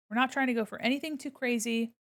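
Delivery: ordinary delivery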